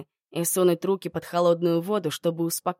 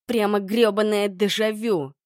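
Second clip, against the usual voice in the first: growled; 3 semitones higher, 4 dB louder than usual. Acted. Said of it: "прорычала я".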